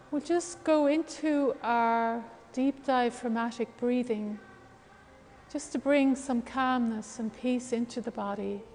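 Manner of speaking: calm, unhurried guidance with long pauses; guided breathing meditation. Real, not acted. Leads a breathing exercise.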